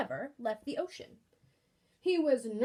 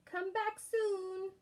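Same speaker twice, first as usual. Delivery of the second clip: gentle unicorn; 6 semitones higher, slower than usual. Acted. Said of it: "The unicorn said".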